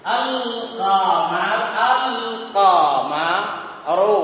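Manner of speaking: "อัล กอมา รู" in pieces, clear l in อัล; lam pronounced. Shown as a demonstration. Teacher showing students a moon letter, lam sounded. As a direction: lift the tongue for the l in "อัล กอมา". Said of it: "กระดกลิ้นนั่นเอง".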